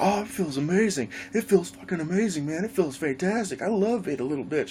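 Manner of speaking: high sarcastic gloating; mocking cheater voice. Cheater on the roof gloating at Jason, high smug voice.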